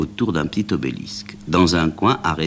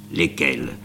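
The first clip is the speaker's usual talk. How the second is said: posément; 3 semitones lower than usual. Acted. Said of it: "Il demande posément".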